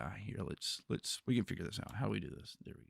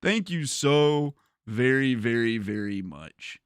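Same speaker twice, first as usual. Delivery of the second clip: effusive thanks; 4 dB louder, slower than usual. Real, not acted. Thanking a donor on stream.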